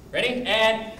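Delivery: very high, loud drawn-out drill shouts; calling out the count. Real, not acted. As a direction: drive the class with big shouts. Instructor calling count to class.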